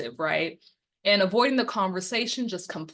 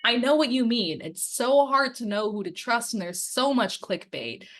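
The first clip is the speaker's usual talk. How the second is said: understanding reply; 4 semitones higher than usual. Shown as a demonstration. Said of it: "and the answer is".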